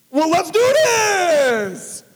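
high, drawn-out joyful shout; excited shout. Retold or imitated. Telling of the invitation to preach, a thrilled shout.

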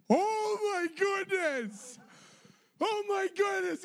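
high, slow, drawn-out cry of amazement; amazed cry. Retold or imitated. Friend marvels after the official gives in, high amazed cry. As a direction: exclaim in disbelief, stretching each word.

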